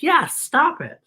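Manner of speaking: very high little kitten voice. Acted. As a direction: pipe up like a tiny kitten. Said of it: "And the kitten said".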